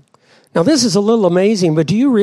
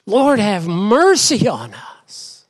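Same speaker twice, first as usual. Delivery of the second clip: slow, raised-pitch plea; desperate prayer; 4 semitones higher, slower than usual. Retold or imitated. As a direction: plead slowly for mercy, lightly acted. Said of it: "we've been desperate".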